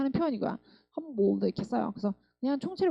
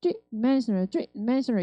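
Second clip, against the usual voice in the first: "three" strong, "di" weak, MEN stressed; much slower than usual. Shown as a demonstration. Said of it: "세고 D 약했다가". (three 세고 D 약하게, 멘에 강세)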